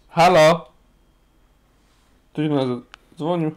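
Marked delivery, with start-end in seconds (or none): 0.1-0.7 on speakerphone. Real, not acted. Unclear phone call on air.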